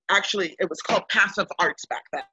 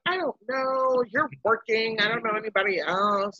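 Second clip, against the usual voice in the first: hesitant; 4 semitones higher than usual. Retold or imitated. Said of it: "And I was like".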